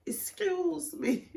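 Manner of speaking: high, slow repeated call; imitating a cellmate calling for attention again; girl in the cell. Imitating a cellmate in jail calling her again, high and slow. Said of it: "this girl in the cell was like".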